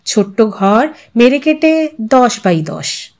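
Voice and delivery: plain reading voice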